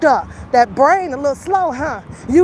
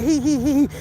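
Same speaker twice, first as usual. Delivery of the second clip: mock giggle. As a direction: mimic someone grinning smugly. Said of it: "You over there smiling".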